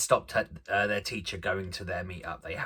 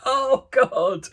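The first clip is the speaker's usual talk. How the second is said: high, loud tearful oh God; crying out oh God through tears; choked up; 8 dB louder than usual. Retold or imitated. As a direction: sob it out, overwhelmed. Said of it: "I'm like".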